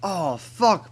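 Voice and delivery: voice cracking. Real, not acted. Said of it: "my voice just cracked".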